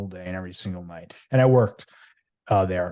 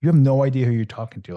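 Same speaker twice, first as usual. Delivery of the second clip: raised, louder, heated confrontation; indignant mock challenge, louder and higher; retold angry outburst; 3 semitones higher, 6 dB louder than usual. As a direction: snap back like he's insulted you, getting in his face. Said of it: "I got pissed".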